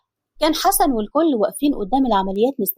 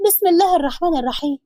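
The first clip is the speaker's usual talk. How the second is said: higher, startled wife catching her breath; mock startled scolding, higher; 5 semitones higher than usual. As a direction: react as if he just scared you. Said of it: "وخضها".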